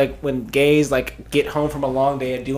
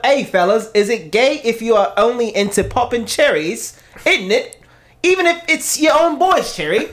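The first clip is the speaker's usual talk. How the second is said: higher-pitched mock British accent; 5 semitones higher than usual. Friend reads the fellas line for the group, mock British accent. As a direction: put on a UK accent, higher and lilting. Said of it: "a U K British accent".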